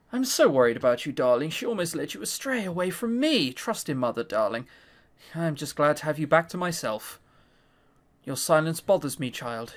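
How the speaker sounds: a hint of a cold, clinging mother; lightly voiced controlling mother, low and soft; possessive mother. Mother voice again.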